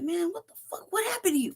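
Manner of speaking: stunned disbelief. Retold or imitated. Dad looking at his son, high and bewildered. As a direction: plead in disbelief.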